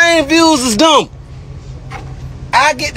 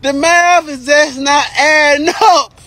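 mocking taunt; 5 semitones higher, slower than usual. Real, not acted.

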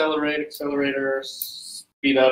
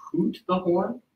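British accent; 7 semitones higher, slower than usual. Shown as a demonstration. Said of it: "that sounds superbly British".

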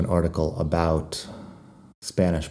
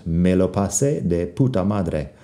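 like you mean it. Shown as a demonstration. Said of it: "you have to say it like you mean it".

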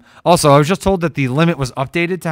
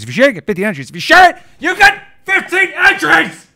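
mock outburst; 12 semitones higher, 6 dB louder than usual. Repetition builds to a mock outburst.

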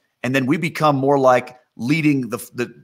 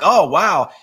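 scornful fake amazement; mock-impressed, then dismissive; 3 semitones higher, 3 dB louder than usual. Onlookers look at Jesus and scoff, mocking. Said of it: "They mocked him".

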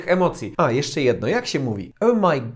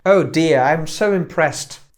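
impressed; 3 dB louder, much slower than usual. Shown as a demonstration.

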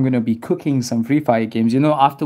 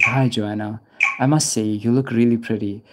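lower, understated pretend sweet talk; mock flirting; 4 semitones lower than usual. Streamer pretending to chat up Joanna, mock flirting. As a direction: lay on a pretend pick-up line, low. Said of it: "I'll just be like".

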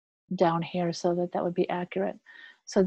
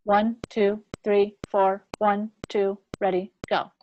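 count-in; slower than usual. Shown as a demonstration. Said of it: "I want the tempo to be".

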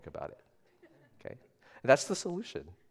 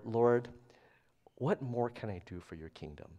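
soft, low-voiced question to the Lord; understated tender plea; tender prayer; 3 semitones lower, 6 dB quieter than usual. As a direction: ask it humbly, dropping softer and lower. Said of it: "in a really tender place when I asked that".

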